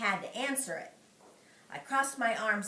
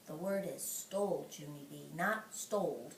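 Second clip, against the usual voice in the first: teacher correcting; 7 semitones lower, 8 dB quieter than usual. Acted. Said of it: "he said".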